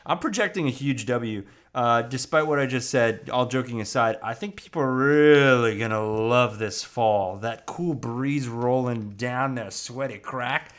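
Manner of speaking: big loud hyped-up forecast; loud hype. Real, not acted. Hyping cohosts up about fall, loud and excited. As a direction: pump the room up about fall.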